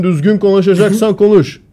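loud, high mock-macho outburst; exaggerated Çomar retelling. Mimicking how a braggart retells telling someone off, exaggerated and loud. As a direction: puff it up like a boastful tough guy. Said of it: "Çomar olsa abartarak anlatır".

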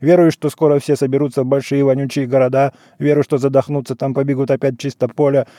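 monotone liturgical rattle on one pitch; even, unbroken chanted patter; practised patter. A narrator's reading. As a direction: recite it like a priest running through a familiar litany. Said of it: "привычной скороговоркой зачастил".

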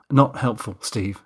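short rebuke at normal pitch; mildly sharp. Acted. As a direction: shut down the joke with understated sharpness. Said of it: "I said sharply".

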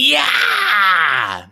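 high, loud battle yell from the trees; ear-splitting cry. Acted. Ambusher leaping from tree at the party, piercing yell. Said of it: "you hear an ear-splitting cry".

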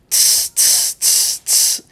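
whispered hi-hat tss sounds; soft tss like a hi-hat cymbal. Shown as a demonstration. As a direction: imitate a drummer's cymbal hiss. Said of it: "Sabe aquele som que o baterista faz".

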